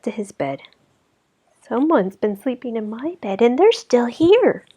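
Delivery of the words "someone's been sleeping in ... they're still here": high, rising alarm in a little voice; baby bear crying out. Acted. Baby Bear finds the girl in his bed, high and alarmed. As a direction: squeak it with surprise. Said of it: "he cried".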